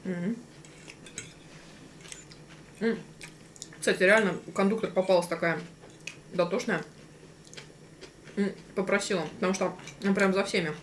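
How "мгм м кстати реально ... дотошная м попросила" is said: talking between bites of food; muffled hum while chewing; mouth full, chewing. Real, not acted. Seen 1: Both diners eat throughout; speaker unclear, mouths closed as if chewing.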